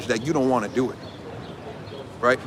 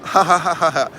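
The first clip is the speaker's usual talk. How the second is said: put-on gushing girlfriend voice note; 3 semitones higher than usual. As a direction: read her voice note like a smitten girl, with mock giggles. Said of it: "The voice note says".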